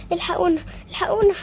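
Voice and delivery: put-on trapped child crying out for rescue; calling for help. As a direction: shout for someone to hear.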